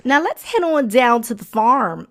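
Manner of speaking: put-on a light Southern country accent on head and down; lightly drawled down-home Southern twang. Host introducing farm animals to listeners in a light Southern country accent. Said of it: "Y'all like my little country accent".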